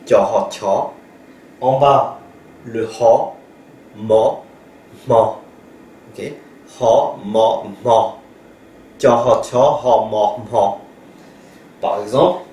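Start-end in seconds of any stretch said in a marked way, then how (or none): 0.0-0.7 TIA-HA run together, then aspirated TIA; teacher modelling TIA plus HA; blending demo redone. Shown as a demonstration. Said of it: "je le refais". 2.7-10.8 HA, MA, then breathy-onset blended MA; spaced syllables, teacher modelling each blend; sound-blending demo. Shown as a demonstration. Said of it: "je le refais".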